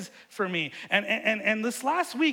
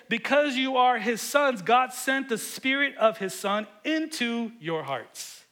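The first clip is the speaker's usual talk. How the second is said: louder, slower reading, every word leaned on; proclaimed with weight; 5 semitones higher, 4 dB louder than usual. Shown as a demonstration. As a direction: declare the verse slowly, as if to the back row. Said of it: "listen to how he says it".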